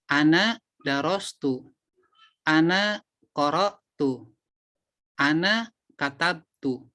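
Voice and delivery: slow, clear model sentences; slow drill. Shown as a demonstration. Teacher drills the class, slow and clear. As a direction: say each phrase slowly for students to copy. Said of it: "maka menjadi ana darostu".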